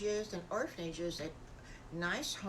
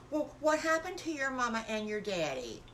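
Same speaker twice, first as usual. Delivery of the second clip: higher little piglet asking; lightly voiced nosy piglet; curious little piggy; 4 semitones higher, 3 dB louder than usual. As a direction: ask it with a child's blunt curiosity.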